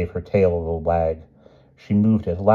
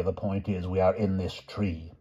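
whisper; 7 dB quieter than usual. A narrator's reading. Knights in a tree.

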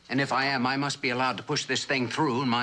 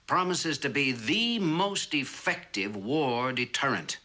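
measured, deliberate address to an audience; formal speech; 2 semitones lower than usual. Acted. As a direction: deliver it like a lecture to officials.

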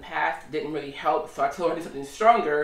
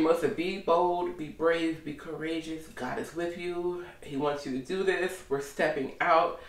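hushed self-encouragement, growing softer; quiet self pep talk; 6 dB quieter than usual. Retold or imitated. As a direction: quietly coach yourself to be brave. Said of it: "I just keep thinking".

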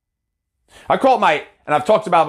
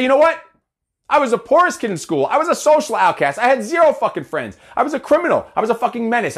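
raised, defiant and proud, higher than usual; defiant raised declaration; 4 semitones higher than usual. Retold or imitated. Speaking to doubters, higher and defiant. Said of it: "and I say".

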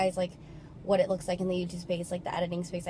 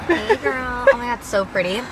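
excited greeting; 4 semitones higher, 9 dB louder than usual. Real, not acted. Greeting friend, complimenting her.

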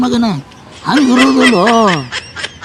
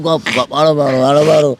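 low, coaxing hush; calm a crying child, pitched low; soothing hush; 7 semitones lower than usual. Acted. (ಅಳು ನಿಲ್ಲಿಸಲು ತಗ್ಗಿದ ಸಾಂತ್ವನದ ಧ್ವನಿ)

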